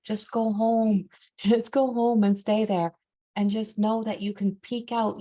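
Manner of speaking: mildly exasperated, affectionate pleading; gentle urging. Retold or imitated. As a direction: coax a little creature homeward. Retold coaxing of the bee homeward.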